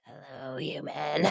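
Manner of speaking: put-on low, rasping old smoker voice; smoker's voice. Shown as a demonstration. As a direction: growl it like a chain-smoking grandma. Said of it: "a smoker's voice or Roz from Monsters, Inc".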